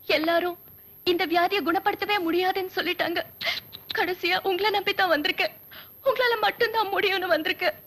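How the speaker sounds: mock tearful pleading; patient weeping to the doctor about her illness; crying. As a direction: sob through the words, hammed-up. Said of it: "அழுவாதீங்க".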